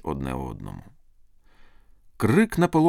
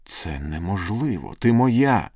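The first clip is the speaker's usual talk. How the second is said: slow start swelling to a loud outburst; protesting cry; 3 dB louder, slower than usual. Acted. Lover refusing to lose his sweetheart, protest rising to a cry. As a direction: build from disbelief to a raised, possessive cry. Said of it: "скрикнув Павло і стиснув її в обіймах".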